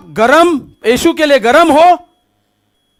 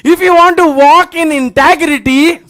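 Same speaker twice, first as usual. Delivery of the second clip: slow, emphatic preaching declaration; preached slogan; much slower than usual. Real, not acted. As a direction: draw each word out for the congregation.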